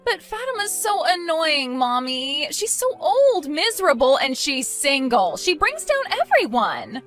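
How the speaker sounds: high-pitched petulant whine; whining complaint. Acted. Bride to mother about the annoying sister-in-law, whining complaint.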